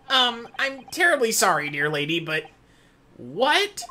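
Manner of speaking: high-voiced, apologetic character ending on a sharply rising "what"; apologetic gentleman. Addressing the foreign lady in court, politely baffled. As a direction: raise the pitch for a puzzled, polite gentleman. Voicing a game character, puzzled.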